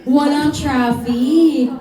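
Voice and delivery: "Walang traffic" drawn out slowly, WALANG leaned on; slow stressed echo. Shown as a demonstration. Host repeating the student's answer, slow and emphatic. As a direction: stretch out "Walang traffic" as if amazed. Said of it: "I mean, walang traffic".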